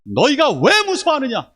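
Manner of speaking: high and loud, a stern scolding voice; strong rebuke. Shown as a demonstration. Jesus scolding the fearful disciples, high and loud. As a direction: demand it of them, forcefully. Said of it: "이렇게 강하게 얘기하시는 겁니다".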